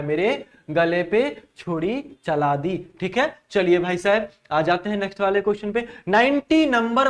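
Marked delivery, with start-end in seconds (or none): 0.0-2.9 slow, deliberate re-reading of the line; slow explaining. Shown as a demonstration. Teacher repeats the example for students, slowly and deliberately. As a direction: spell out each word slowly for the class. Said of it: "ये कहना चाहता है".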